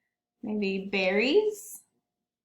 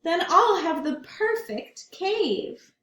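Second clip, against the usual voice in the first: dreamy bear; 7 semitones higher, 4 dB louder than usual. Acted. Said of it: "said Big Brown Bear".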